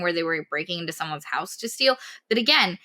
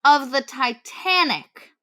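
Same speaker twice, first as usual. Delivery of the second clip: exasperated; 4 dB louder, much slower than usual. Real, not acted. Exasperated emphasis on absurd plan.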